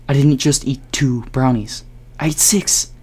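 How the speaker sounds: exasperated correction. Retold or imitated. To Jared about eating six brownies, high exasperated retort. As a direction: hit him with the number.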